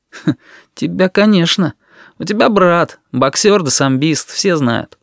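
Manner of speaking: high sneer after a scoff. A narrator's reading. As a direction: open on a scornful huff. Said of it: "усмехнулся одной стороной рта". (с усмешкой, свысока)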